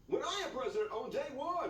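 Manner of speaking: pompous campaign promise, hammed up a little; mock candidate. Satirical quote of a candidate.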